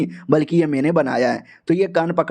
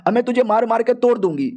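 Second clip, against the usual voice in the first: put-on raised, heated threat from the freed girl; angry; 4 semitones higher than usual. Girl threatens the man who grabbed her, angry and raised. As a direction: spit the threat out in anger. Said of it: "गुस्से में आ जाती है".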